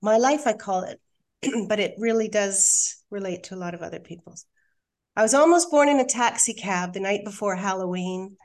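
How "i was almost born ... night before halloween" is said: measured, deliberate reading of the opening line; poem recital. Shown as a demonstration. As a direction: read it like the first line of a poem. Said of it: "so this is my poem".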